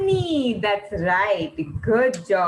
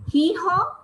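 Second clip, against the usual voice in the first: mule bray; 6 semitones higher than usual. Retold or imitated. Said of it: "Who does that?".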